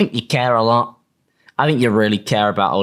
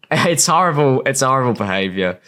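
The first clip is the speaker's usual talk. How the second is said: laughing. Real, not acted. Laughing at the behaviour.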